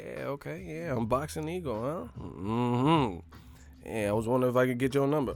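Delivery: put-on seductive voice, drawn-out mm-hmm. Retelling talking to a lady, imitating own sexy voice. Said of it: "I thought my voice was, like, you know, kinda sexy".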